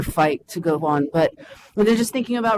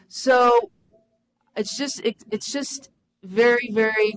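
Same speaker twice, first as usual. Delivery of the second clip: halting, overcome with feeling; real emotional, faltering; 2 semitones higher, slower than usual. Real, not acted. Speaker moved by the day, losing the thread, emotional. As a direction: struggle for words, long pauses between them. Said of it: "sorry, I'm getting emotional".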